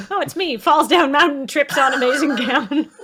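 loud, laughing self-parody; laughing mock pratfall. Player mocking her own grand entrance, loud and laughing. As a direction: narrate your own tumble loudly through laughter.

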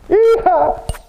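loud, high cowboy yeehaw; joyful whoop. Real, not acted. Pastor hugging a church member, a loud joyful yeehaw. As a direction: let out a big happy whoop.

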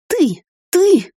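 hissed accusation, rising; hissing. A narrator's reading. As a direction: hiss it out at her son. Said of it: "зашипела она". (шипение, с нарастанием)

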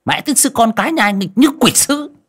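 put-on high, loud shrew yelling at a boy; loud high angry scolding, quick at the end; scolding harshly. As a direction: chase the boy out with threats. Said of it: "nạt nộ".

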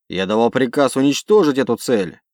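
loud insistent order; angry command. Acted. Commander overruled by pilot.

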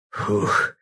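breathless puff of air; heavy exhale. A narrator's reading. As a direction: blow out a tired breath. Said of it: "Лёва несколько раз тяжело выдохнул".

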